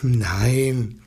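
ruhig erzählend für Kinder vorlesen; Gutenachtgeschichte vorlesen. A narrator's reading. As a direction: wie am Kinderbett eine Geschichte vortragen. Reads bedtime story aloud. (sanfte Vorlesestimme für kleine und große Leute)

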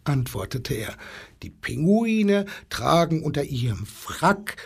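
ruhig erzählend für Kinder vorlesen; Gutenachtgeschichte vorlesen. A narrator's reading. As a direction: wie am Kinderbett eine Geschichte vortragen. Reads bedtime story aloud. (sanfte Vorlesestimme für kleine und große Leute)

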